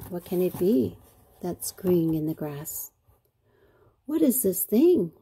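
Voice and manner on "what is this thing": higher, louder puzzled question. A narrator's reading. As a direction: ask it with lively curiosity. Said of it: "Roly asked".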